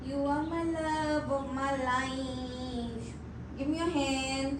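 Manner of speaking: slow, drawn-out cooing to a pet bird. Real, not acted. Cooing love to parrot.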